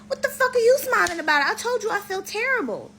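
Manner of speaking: hammed-up outrage at being laughed at; sick boyfriend yelling at his smiling girlfriend, mock angry high yell; mock angry outburst.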